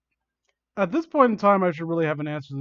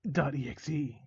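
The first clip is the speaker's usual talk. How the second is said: evil smirk; 7 dB quieter than usual. Acted. Villain names himself to victim, evilly smug. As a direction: say it slyly and quietly. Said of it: "he smirked evilly".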